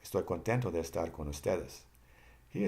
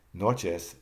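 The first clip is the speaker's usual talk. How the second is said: Noches with a louder first syllable NO; stress on NO; 5 dB louder than usual. Shown as a demonstration. Teacher showing learners the accent, NO stressed in Noches. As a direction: punch the NO of Noches. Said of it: "the accent is on N O".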